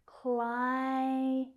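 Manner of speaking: "Client" in two slow beats, KLAI... ent; two syllables. Shown as a demonstration. Teacher showing students two syllables, "Client" slowly split. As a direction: hold KLAI, pause, then ent in "Client". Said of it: "So we have two syllables".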